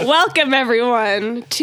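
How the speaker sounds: laughing welcome. Real, not acted. Podcast intro, laughing.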